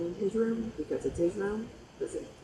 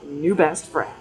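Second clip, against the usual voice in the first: excited; 9 dB louder, slower than usual. Retold or imitated. Excited reply to friend at camp.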